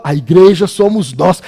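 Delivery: firm preacher's declaration; emphatic proclamation. Real, not acted. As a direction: proclaim it to the whole church. First take, proclaimed.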